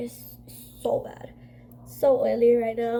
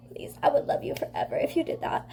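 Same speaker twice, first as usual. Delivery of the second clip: whisper; 4 dB quieter than usual. Real, not acted. Pleading for makeup help.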